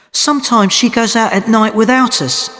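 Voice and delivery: mild anger. A narrator's reading. Annie complaining that Gail goes out without them, mildly angry. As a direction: let some annoyance lift the pitch. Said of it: "She was angry too".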